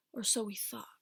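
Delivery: ominous storyteller whisper. Acted. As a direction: breathe it like a spooky twist.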